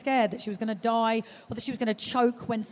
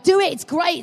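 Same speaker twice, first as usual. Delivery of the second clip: mock cheerful hype; 7 semitones higher, 8 dB louder than usual. Friends' cheerful hype retold.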